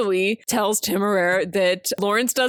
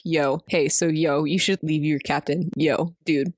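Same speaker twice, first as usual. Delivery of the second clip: lower, laid-back bro voice; chill dude dragon; 7 semitones lower than usual. Retold or imitated. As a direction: play the dragon as a mellow surfer dude.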